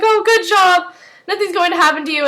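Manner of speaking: high, encouraging mom voice; acted motherly praise. Elizabeth praising Peter's coin trick, acted motherly encouragement.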